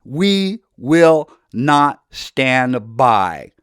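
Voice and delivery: slow defiant declaration. Pretend. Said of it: "We must stand up and say".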